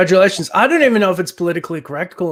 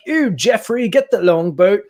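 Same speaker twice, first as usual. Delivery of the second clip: put-on posh British accent; 4 semitones higher, 3 dB louder than usual. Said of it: "Brits on the fucking boats".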